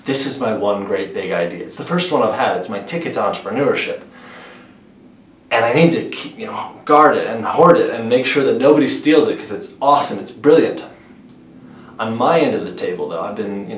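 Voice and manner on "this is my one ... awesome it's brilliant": lightly acted would-be entrepreneur, pitch lifting; mock idea owner. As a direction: imitate someone jealously guarding their one big idea. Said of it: "Most people who come to me with an idea".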